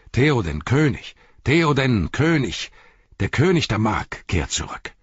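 high, ringing cheer for the king; joyful shout. A narrator's reading. Guards at the ford recognise their returning king, joyful shouting. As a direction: call it out with joy, each word falling from a high pitch. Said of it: "riefen sie freudig".

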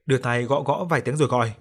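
plain reading voice

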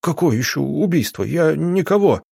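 rising, shaken denial; frightened protest. Acted. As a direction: protest in panic, voice climbing high. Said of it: "Его затрясло".

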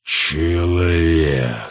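very low, very slow, spiteful growl; deep slow stone giant snarl; heavy malicious giant. A narrator's reading. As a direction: drag the word out low and full of malice. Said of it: "тяжкое, полное злобы".

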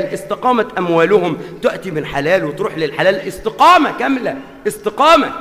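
building sermon list; rhythmic sermon cadence; preaching. Acted. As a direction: hammer each line home like a preacher.

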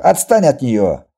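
loud, slow order to back off; angry growl. Acted. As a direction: growl it loudly in her defence. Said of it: "прорычал Виктор". (грозный громкий окрик)

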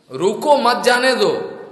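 slow "रुको", set apart before "मत जाने दो"; intended phrasing. Shown as a demonstration. Master wanting the thief stopped, phrasing "रुको" separately from "मत जाने दो". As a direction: call "रुको" as its own order, then "मत जाने दो". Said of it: "ऐसा बोलना था".

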